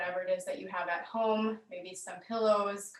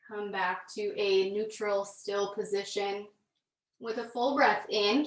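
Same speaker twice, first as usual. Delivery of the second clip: calm, measured yoga-class delivery with long pauses; guided yoga instruction; 3 dB louder than usual. Real, not acted. Yoga teacher leading students through gentle movement, calm guided instruction.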